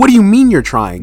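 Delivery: high, loud mock disbelief; acted incredulous question. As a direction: imitate someone baffled and demanding. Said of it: "And he's like".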